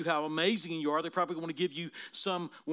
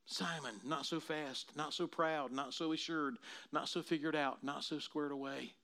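softer, hushed, each "not so" a gentle check; quiet rebuke; 6 dB quieter than usual. Acted.

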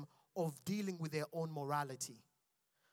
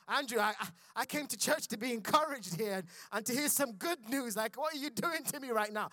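mock inner complaint. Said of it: "I'm sitting there talking to myself".

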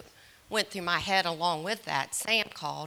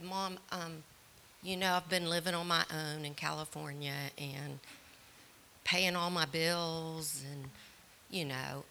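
gentle; 6 dB quieter than usual. Retold or imitated. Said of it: "very gently".

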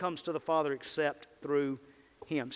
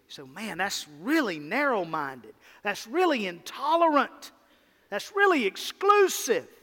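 mock objection. Preacher voicing critics' outraged complaint, mock indignant. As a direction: voice a scoffing critic, building up. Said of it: "It is exclusive".

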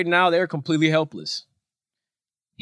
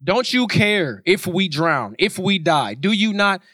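higher-pitched, pleading questions; mildly acted panic; 4 semitones higher than usual. Disciples waking Jesus on the sinking boat, frightened pleading. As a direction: plead with the teacher as the storm takes over. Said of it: "they were terrified".

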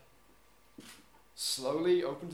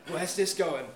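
amused, laughing, where's this going; laughing curiosity; slower than usual. Retold or imitated. Woman on the bench, amused and laughing. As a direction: chuckle through the question. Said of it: "is like".

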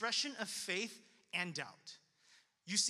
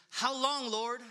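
lament; 3 semitones higher, 6 dB louder, slower than usual. Acted. Preacher reading David's prayer to the congregation, pleading lament. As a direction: call it out in anguished appeal. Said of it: "David's many prayers of lament".

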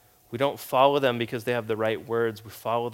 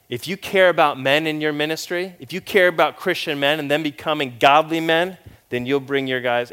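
mock pep-talk coach, louder; imitating a pushy coach; football coach; 4 semitones higher, 7 dB louder than usual. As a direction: bark it like a football coach rallying the team. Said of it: "it was like football coach".

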